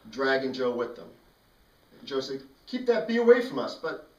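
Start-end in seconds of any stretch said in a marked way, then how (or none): 2.7-3.8 high, loud frightened shout; panicked yell. Retold or imitated. Joe being dragged off by his dog, yelling in panic.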